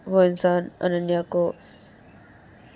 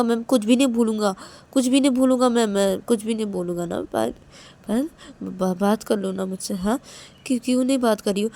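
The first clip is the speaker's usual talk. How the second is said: halting, coaxing apology; pleading Ananya; 3 semitones higher, 3 dB louder than usual. Acted. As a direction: plead gently, tripping over the words. (मनुहार करते हुए, अटक-अटक कर माफ़ी)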